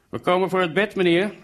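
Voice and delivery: loud, high-pitched shout; calling out. A narrator's reading. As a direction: shout it out like a caller at the door. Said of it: "riep ik".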